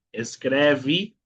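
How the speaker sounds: "escreve" ending in vee, tune rising; final E as I. Shown as a demonstration. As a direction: model "escreve" as es-KREH-vee with a lift. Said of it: "Siguiente palabra".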